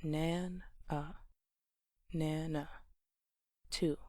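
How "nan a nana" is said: "nan-a" split into two measured beats, then "nana"; broken into syllables. Shown as a demonstration. Teacher counting the syllables of Nana for learners, broken into syllables. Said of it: "Nana has two syllables".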